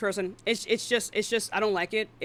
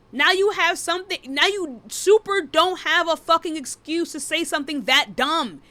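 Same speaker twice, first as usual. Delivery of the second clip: raised, higher-pitched exasperation; exasperated rant; 6 semitones higher, 4 dB louder than usual. Real, not acted. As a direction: chew them out, voice climbing. Heated rant at a viewer.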